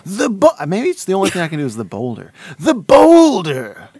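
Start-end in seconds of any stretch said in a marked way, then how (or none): 2.6-3.9 high, loud, slow wrestler yell; wrestler shout. Shown as a demonstration. Podcaster tries the boulder line as a wrestler yell. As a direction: bellow it like a ring announcer. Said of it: "That wasn't even that good".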